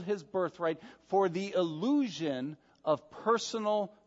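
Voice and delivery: slow down and weigh illusion; the word illusion drawn out and stressed. Real, not acted. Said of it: "I emphasize the word illusion".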